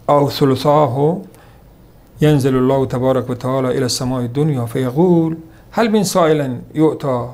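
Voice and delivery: slow, measured Arabic recitation of a hadith. Acted. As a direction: recite each phrase slowly and deliberately. (تلاوت آرام و شمرده حدیث به عربی)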